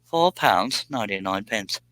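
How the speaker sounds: put-on British accent tried again, lightly; mock British accent. Streamer repeating the price, in a light mock British accent. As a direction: another go at sounding British. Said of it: "I can't say that in a normal accent".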